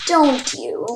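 very slow sinister drawn-out question; creepy Flowey. Acted. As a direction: stretch it out like a knowing villain.

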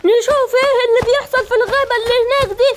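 rallying call. Acted. Leader rallies animals to fight.

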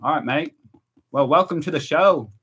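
a light, amateur Australian accent; attempted Australian accent. Shown as a demonstration. American streamer asked by viewers for his best Australian accent, amateur attempt. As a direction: give your best Australian welcome. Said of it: "Do your, your best Australian accent".

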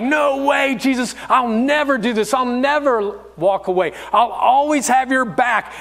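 mock-indignant vow; insistent protest. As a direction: protest your loyalty, acted out. Peter protests Jesus's prediction.

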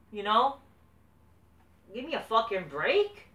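loud, high-pitched exasperated rant; furious wrestling fan ranting; angry rant. Real, not acted. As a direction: vent at full volume about the booking. Ranting about undeserved title shot.

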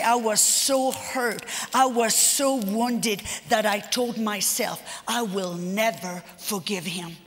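abandoned wife recalling her vow, hushed; hurt, quiet testimony. Retold or imitated. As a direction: let the old bitterness show quietly. Hurt woman's retold vow.

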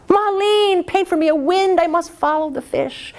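high, quick, greedy urgency; eager emperor. A narrator's reading. Greedy emperor urging Ma Lin, high and eager. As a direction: hurry him with grasping excitement.

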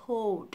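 "cold" with dark L before D; correct cold. Shown as a demonstration. Teacher reviewing, "cold" with its L sounded. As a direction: lift the tongue for L in "cold". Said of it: "kéo lưỡi lên".

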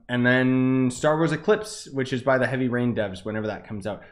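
echoing room sound; roomy, reverberant recording; reverb and echo. Real, not acted. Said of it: "Sorry about the reverb and echo and stuff".

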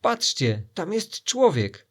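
loud high slow alarmed shout. Acted. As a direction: yell it out as you point. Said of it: "zaczęli krzyczeć".

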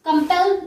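slow कंपेल leaning on पेल; कंपेल, second syllable stressed; stress on last syllable. Shown as a demonstration. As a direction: press on the final ल of कंपेल. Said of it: "एल पे".

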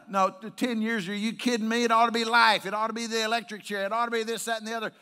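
very loud, high, indignant shouting; outraged screaming, imitated. Preacher voicing society's outrage at the sentence, shouted angrily. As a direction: rant at full volume like an outraged public. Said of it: "why wasn't he screaming".

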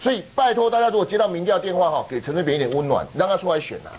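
high mock-indignant sarcasm; sarcastic. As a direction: act outraged, but mean the opposite. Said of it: "辉文这个是反讽哈".

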